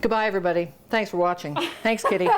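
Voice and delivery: mouth full. Real, not acted. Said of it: "I'm not gonna say goodbye with my mouth full".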